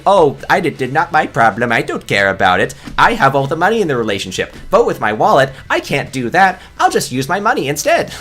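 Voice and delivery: high, mocking whiny voice; mocking paraphrase. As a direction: parody the commenter as careless and smug. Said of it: "you're saying".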